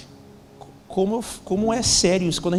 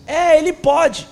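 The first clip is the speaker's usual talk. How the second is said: put-on higher, slow, louder child voice; little daughter's voice; 10 semitones higher, 8 dB louder, much slower than usual. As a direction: voice the small girl volunteering her dad. Little daughter chiming in from backseat.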